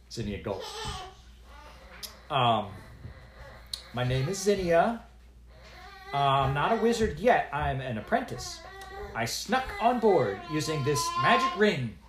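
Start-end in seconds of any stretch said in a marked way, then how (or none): 2.3-12.0 lightly voiced, higher, hesitant apprentice; a nervous girl explaining herself; a hint of a timid young wizard girl.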